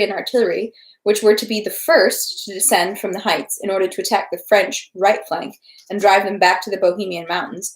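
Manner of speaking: steady read-aloud narration of a novel; story narration. A narrator's reading. Reading War and Peace aloud to livestream viewers, steady narration. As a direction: read the battle scene evenly to listeners.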